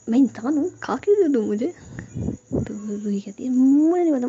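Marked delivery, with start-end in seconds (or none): 0.1-1.7 higher, louder indignant plea; mock-indignant outburst; exasperated protest. A narrator's reading. Protests at being bitten. 3.5-4.3 petulant outburst; stubborn refusal. A narrator's reading. Stubborn reply to protest.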